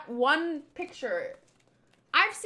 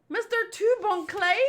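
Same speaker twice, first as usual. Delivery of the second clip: high searching call, rising at the end; questioning call; 6 semitones higher than usual. Acted. Crew looking for the missing captain, questioning high call. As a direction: call the name as a worried question.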